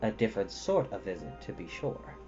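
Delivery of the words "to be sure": ordinary delivery, nothing marked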